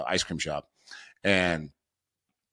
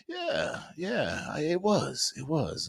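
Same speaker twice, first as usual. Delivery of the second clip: dad's happy yes; 7 semitones higher, much slower than usual. Retold or imitated. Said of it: "He goes".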